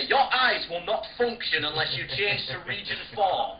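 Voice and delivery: hammed-up slow system warning; mock warning. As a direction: read it like a stern device message. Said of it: "it won't say".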